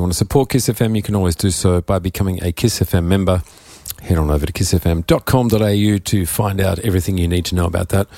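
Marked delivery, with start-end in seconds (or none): 4.0-8.1 slightly croaky, rough throat. Real, not acted. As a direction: talk through a croaky throat. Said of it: "Excuse my croaky voice".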